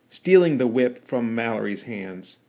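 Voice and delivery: usual speaking voice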